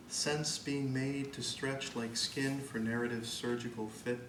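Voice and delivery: measured poem recital with deliberate pauses; poetry reading. Acted. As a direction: read it line by line, weighing each phrase. Reads own poem to audience.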